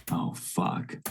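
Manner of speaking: hushed, voiceless curse; acted whisper of dismay; whispered dread. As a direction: swear under your breath as an overhearing nurse. Nurse overhears bad news, mutters.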